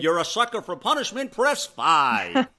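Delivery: automated phone menu, mock recording. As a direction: read it like a phone recording prompt. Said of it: "Can you imagine now calling up ladies and you say".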